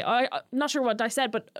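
mildly flustered stammer, a little high; retold panic. Retelling a contestant caught out on television, mild mock panic. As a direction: imitate faltering, lightly panicked backtracking. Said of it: "and then she panics".

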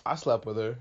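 low, lazy deadpan quote; bored and chill. Retold or imitated. The Impala guy admitting it, bored and chill. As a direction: toss it off like it means nothing. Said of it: "He's just so bored and chill".

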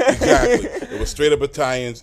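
laughing while agreeing. Real, not acted. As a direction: laugh through the words. Guest laughs agreeing about neighborhood.

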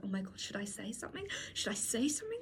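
hushed, urgent inner panic; pressured. Retold or imitated. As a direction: fret softly to yourself. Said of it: "I felt really pressured".

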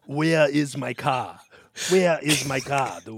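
put-on slow Arnold accent, "where" in two syllables; drawn-out Austrian action-hero accent; Arnold Schwarzenegger accent. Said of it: "add an extra syllable".

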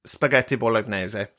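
"spaghetti bolognese" with bolognese ending in an Italian -ay-zeh; Italian pronunciation. Shown as a demonstration. Host insisting on Italian usage, Italian-style "spaghetti bolognese". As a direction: say "bolognese" as the Italians do, four syllables. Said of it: "You have to say it like they do".

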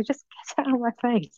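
unvoiced mock whisper, half to herself; retold whisper. At the massage table, about the masseuse, a mock whisper. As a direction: breathe it as a secret aside. Retelling oil under her nose.

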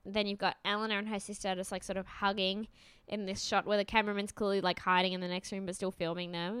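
normal talking voice

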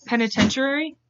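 "Penitentiary" with extra vowels, rising like a question; unsure pronunciation. Real, not acted. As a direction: ask "Penitentiary?" as if unsure how it goes. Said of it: "Why can't I say it".

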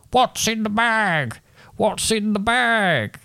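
high, slow screeching bird voice; screeching rook. Acted. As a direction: screech it like a big angry rook. Angry rook screeching at the boy.

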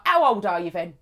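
imitating a blunt Cockney woman; lightly put-on Cockney, direct question. Cockney woman asks her friend's age, Cockney. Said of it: "She's very Cockney".

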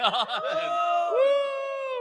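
very high, loud sustained whoop; celebratory whoop. Real, not acted. Host celebrates a won prize, high whoop.

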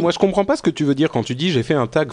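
talking with a mouth full; words round a bite of macaron. Real, not acted. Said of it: "On ne parle pas la bouche pleine".

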